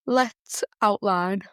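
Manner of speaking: words stretched by a yawn. Real, not acted. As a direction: talk through a slow yawn. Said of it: "Sorry, I keep yawning".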